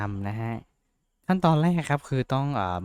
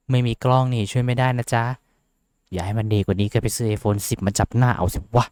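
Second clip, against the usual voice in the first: louder, cheeky teasing; snarky aside; 5 dB louder than usual. Real, not acted. Streamer tells viewers without a camera to buy an iPhone, louder and cheeky. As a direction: tease the camera-less viewers. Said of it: "ความในใจ ความในใจ".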